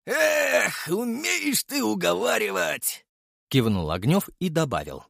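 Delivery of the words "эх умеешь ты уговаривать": higher, slow grudging voice; sergeant giving in. Acted. Ognev yielding to his friend, grudging. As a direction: sigh and give in.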